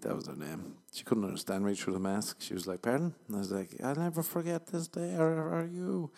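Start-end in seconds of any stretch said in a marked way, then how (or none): 2.8-3.1 higher, louder puzzled pardon; imitating someone who can't hear; muffled confusion, hammed up; mock confused. Nurse can't hear through mask. 3.8-6.1 higher, mock-tender declaration; hammed-up earnest goodbye; sappy farewell.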